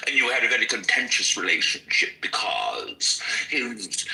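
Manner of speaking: a hint of a mid-Atlantic accent, unhurried; Baldwin's transatlantic accent. Teacher shows how Baldwin performed, in a mild mid-Atlantic accent. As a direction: lightly play Baldwin the performer in a fake-British accent. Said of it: "He changed his accent".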